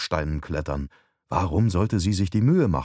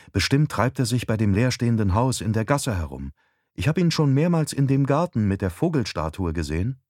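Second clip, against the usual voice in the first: lightly voiced wife, somewhat higher; a hint of the wife's voice; wife, informative; 4 semitones higher than usual. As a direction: explain as the wife. Narrator voices wife on phone.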